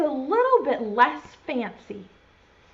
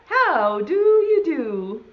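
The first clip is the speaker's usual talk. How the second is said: animal's greeting; 4 semitones higher, 4 dB louder, slower than usual. Shown as a demonstration. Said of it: "Can you say that?".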